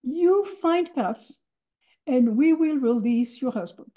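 the officer dictating terms; commandant's bargain. Retold or imitated. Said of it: "He says".

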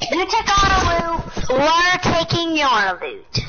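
distorted, too close to the mic; clipping distorted mic. Real, not acted. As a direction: mouth right on the mic. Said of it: "stop shouting into the mic".

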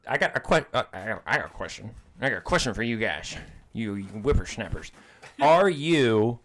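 lightly voiced cranky old-timer; a hint of a grumpy grandpa; old man voice. Grumpy old-timer asking a question.

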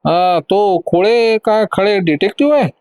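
slow, high-pitched mild disbelief; disbelieving. Acted. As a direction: ask it slowly, as if you can't believe it. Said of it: "अविश्वासाच्या स्वरात तिला विचारलं".

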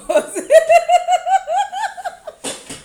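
loud, high-pitched burst of laughter; long high laugh. Real, not acted. Cracking up over the word spicose, long high laugh.

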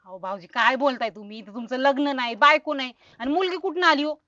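loud disbelief, rising in pitch; building baffled protest; incredulous. Acted. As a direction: challenge his story in astonishment. Disbelieves he has a daughter.

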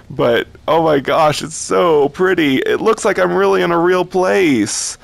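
high, gushing wonder; real overwhelmed delight; tearful awe. Real, not acted. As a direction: marvel at it, close to happy tears. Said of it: "I'm actually starting to tear up".

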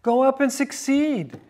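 lightly mock the king with false encouragement. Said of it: "here's where he said mockingly".

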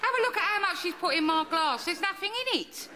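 mock disgust at the stingy pour; laughing indignant aside. Daughter laughing at her mother's stingy pour, indignant.

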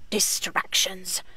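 breathy whisper, slow and disapproving; whispered lament. Acted. Nun musing about modern distractions, slow whisper. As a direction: breathe the word like a weary reproach.

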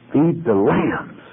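feed the lambs. said slowly with feed punched; preacher hammering home feed the lambs; slow emphatic charge. Real, not acted. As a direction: lean on feed, slow and firm. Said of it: "never forget".

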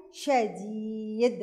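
الشديد said slowly with the shin in ash-shadeed clearly doubled. Shown as a demonstration. Pupil answering her teacher, slowly stressing the doubled shin in الشديد. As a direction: draw out الشديد, pressing hard on the doubled sh. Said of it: "احنا ضاعفنا نطق حرف الشين".

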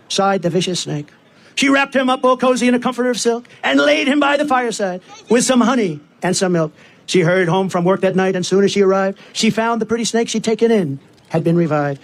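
measured, rhythmic poem reading; storytelling in verse, line by line; poem recitation. Acted. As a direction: recite the verse to a crowd in steady cadence.

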